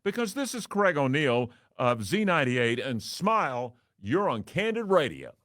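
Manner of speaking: spring the prank reveal like a DJ; the DJ's own voice, booming the punchline; radio DJ reveal. Acted. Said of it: "returning with my normal everyday baritone".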